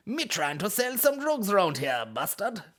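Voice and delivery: high, hammed-up West Indian accent. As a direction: put on an indignant, drawn-out West Indian accent. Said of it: "draw on your sort of West Indian roots".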